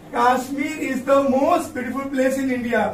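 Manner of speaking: whole sentence read smoothly at a slow pace, no gaps between words; full sentence read slowly. Shown as a demonstration. Teacher to students reading the finished sentence back, slow and whole. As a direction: read it back in one slow flowing line. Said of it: "देखो बच्चों, कश्मीर".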